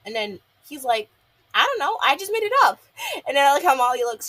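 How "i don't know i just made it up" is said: high, loud imitated outburst; mock panicked blurt. Gil admits to the guppies he invented it, mock-panicked blurt. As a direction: blurt it out in a raised, squeaky-high voice.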